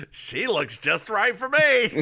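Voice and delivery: high-pitched comic impression; Bill Cosby. Co-host joins the imagined comedian bit, mock impression. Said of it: "Doctor Bill Cosby shows up".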